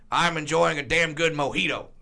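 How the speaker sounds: lightly imitated folksy commentator; J R impression. Comedian retelling the answer on the boat, folksy impression. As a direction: savor it in a slight country bluster. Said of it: "And he goes".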